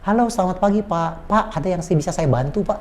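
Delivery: courteous offer of help; polite phone greeting. Shown as a demonstration. Trainer demonstrates a call that sounds courteous to customers, polite. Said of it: "Orang ini sopan".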